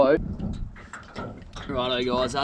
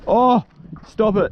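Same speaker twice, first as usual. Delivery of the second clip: loud exclamation; 8 semitones higher, 5 dB louder, slower than usual. Real, not acted. Squid squirting.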